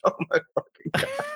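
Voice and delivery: very high, soft strangled squeak of horror; mortified squeak. Retold or imitated. Passenger reliving her shock at the kid's news, a high squeak. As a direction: squeak it out, aghast.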